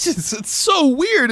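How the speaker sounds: high slow laughing disbelief; amused high-pitched laugh-talk. Real, not acted. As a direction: giggle through it, slowly. Laughing at the absurd plot.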